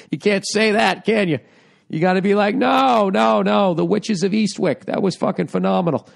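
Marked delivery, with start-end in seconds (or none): 2.5-6.1 higher-pitched insistent protest, easing down; exaggerated, insincere enthusiasm; mock gushing praise. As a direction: pretend to rave about it. Mock obligatory praise of women's films.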